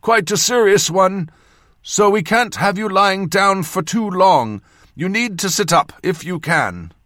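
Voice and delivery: loud, high surgeon-to-patient voice. A narrator's reading. Surgeon addressing his concussed patient, very loud. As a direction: speak up as if to a dazed patient. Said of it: "he said very loudly".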